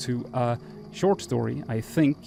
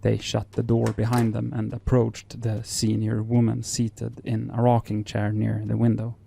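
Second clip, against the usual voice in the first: story narration. Acted.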